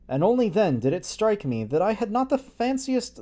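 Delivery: plain reading voice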